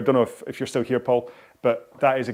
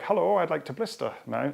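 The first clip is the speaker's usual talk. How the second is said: lightly voiced blister, pitched higher; playful, higher-pitched hello from a blister; talking blister; 5 semitones higher than usual. Blisters announce themselves on sweaty hands, lightly hammed-up higher voice. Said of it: "blisters are like".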